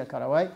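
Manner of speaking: كرواي as English "caraway", in an Arabic speaker's mouth; English word. Shown as a demonstration. Lecturer giving the herb's English name, English word pronunciation. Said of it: "بالإنجليزية".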